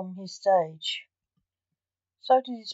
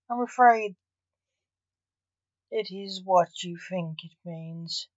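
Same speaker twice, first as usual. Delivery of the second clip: gentle bad news; 5 dB quieter than usual. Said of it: "said Blake in her mind".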